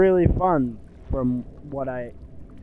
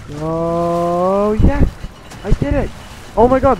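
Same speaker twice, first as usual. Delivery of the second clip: high, loud burst of triumph; a real cry of triumph; real joyful cheer; 5 semitones higher, 10 dB louder, slower than usual. Real, not acted. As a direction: shout it out, thrilled it worked. Finally succeeds at the puzzle.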